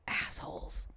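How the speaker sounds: hushed, voiceless swearing; whispered curse. Real, not acted. Cursing ants eating the Skittles, in a whisper. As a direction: curse them under your breath.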